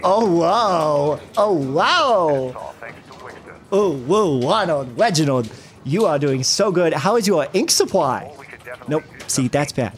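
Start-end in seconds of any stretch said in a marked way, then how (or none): 0.0-8.3 put-on slow, swooping babyish voice; Homestar Runner-like baby talk. Coach on a customer call, gushing in baby talk. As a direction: gush in sing-song baby talk, W for R. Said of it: "you sound like a Homestar Runner".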